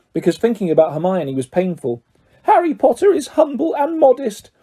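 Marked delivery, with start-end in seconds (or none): 2.4-4.5 high, awed house elf; reverent elf. A narrator's reading. Elf praising Harry, high and reverent. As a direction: speak of him as if of a saint. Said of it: "said Dobby reverently".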